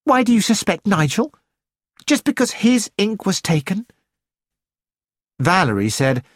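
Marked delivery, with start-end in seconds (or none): 0.0-3.9 high-pitched, mildly indignant challenge; spring to his defence, pitched up and cross; angry. A narrator's reading. Patricia defending Nigel from suspicion, mildly angry. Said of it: "Patricia Lane said angrily".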